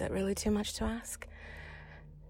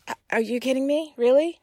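higher, louder, incredulous retort; angry disbelief; 4 semitones higher, 8 dB louder than usual. Retold or imitated. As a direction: throw it back in outraged disbelief. Retelling her angry disbelief at date.

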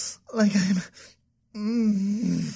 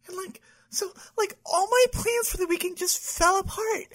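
whiny crying; 7 semitones higher than usual. Acted. Whining to therapist about weekend.

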